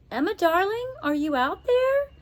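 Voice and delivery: high, anxious calling out; a mother calling anxiously for Emma in the garden; anxious calls. Acted. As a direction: call for your lost daughter, worried. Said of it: "Missus Gladstone's anxious calls".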